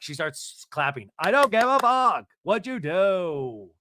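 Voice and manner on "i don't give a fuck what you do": imitated screaming, high, loud and drawn out; full scream. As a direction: yell it slowly with a long last word. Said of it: "She's screaming, full scream".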